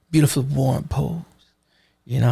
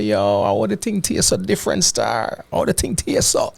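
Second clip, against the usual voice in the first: higher-pitched, playful Jamaican patois; Jamaican patois quote; 5 semitones higher than usual. Retold or imitated. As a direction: mimic locals asking in broad patois. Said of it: "People say".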